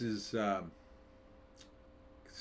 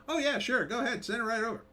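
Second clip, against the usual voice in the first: eager Chinese; 10 semitones higher, faster than usual. Acted. Chinese voiced accepting a movie.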